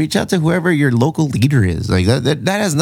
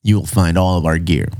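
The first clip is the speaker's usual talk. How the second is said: announcer voice; 4 semitones lower than usual. Shown as a demonstration. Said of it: "So your announcer voice".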